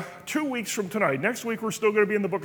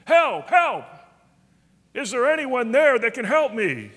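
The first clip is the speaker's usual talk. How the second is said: raised, higher calls for help; storyteller calling help, higher and louder; retold yell for help; 4 semitones higher, 4 dB louder than usual. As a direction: call out for help from the cliff. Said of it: "he began to yell".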